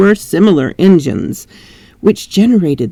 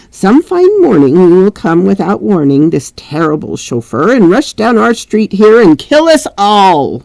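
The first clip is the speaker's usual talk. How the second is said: complaining; 2 semitones higher than usual. Acted.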